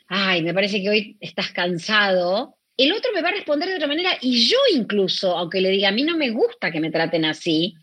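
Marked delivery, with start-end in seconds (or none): 0.1-2.6 soft understanding tone. Retold or imitated. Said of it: "bajo, decir". 5.9-7.7 calm firm tone. Retold or imitated. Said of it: "lo voy a decir en otro tono".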